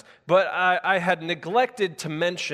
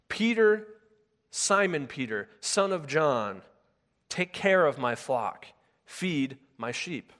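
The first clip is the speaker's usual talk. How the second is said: tender command; slower than usual. Acted. Jesus' commandment voiced.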